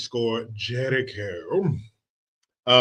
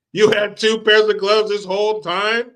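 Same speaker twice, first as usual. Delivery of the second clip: mock disbelief; 8 semitones higher, 7 dB louder than usual. Retelling a Dumb and Dumber scene.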